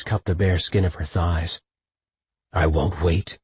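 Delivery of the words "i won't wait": groaned. A narrator's reading. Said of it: "he groaned against her shoulder".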